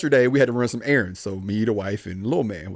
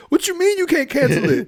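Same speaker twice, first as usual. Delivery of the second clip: retold disbelief. Retold outrage at Amazon agent.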